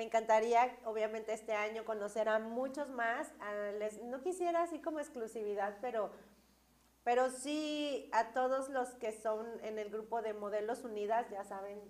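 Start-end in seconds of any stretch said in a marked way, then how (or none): 3.4-11.8 blocked-nose nasal voice; talking nasally after an accident. Real, not acted. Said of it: "Perdón, estoy hablando gangoso".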